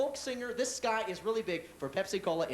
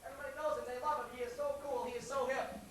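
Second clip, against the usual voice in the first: hushed intro; 7 semitones higher, 5 dB quieter than usual. Acted. Hushed build-up to star.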